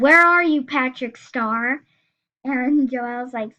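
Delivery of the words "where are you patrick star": mock yell. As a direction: call out like you're hunting for someone. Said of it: "and yelled".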